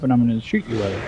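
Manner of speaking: quick, teasing mock threat; playful threat. Ex teasing him with a water gun, playful and quick. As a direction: rattle it off like a joke. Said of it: "and just jokingly, playfully".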